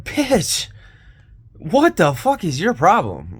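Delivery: high, loud angry snap back; angry retort. Retold or imitated. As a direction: fire back at her furious. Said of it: "I'm like".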